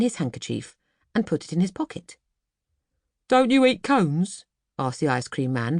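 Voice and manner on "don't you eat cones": higher and slower, in disbelief; very surprised. Acted. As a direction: ask it as if you can't believe it. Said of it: "very surprised".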